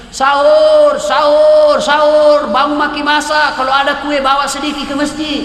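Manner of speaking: loud, high drawn-out wake-up call; imitated sahur call. Youths waking neighbours from the mosque, shouted call. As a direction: holler it out to a sleeping village. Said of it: "teriak-teriak maki di masjid".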